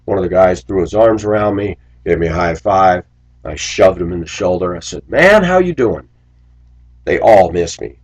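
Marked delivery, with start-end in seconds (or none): 5.1-6.1 cheery greeting. Retold or imitated. Greeting the kids warmly.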